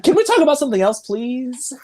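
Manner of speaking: high whiny mock plea; mock pleading. Mocking moviegoers begging to change topic, high whine. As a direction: beg to change the subject, hammed-up.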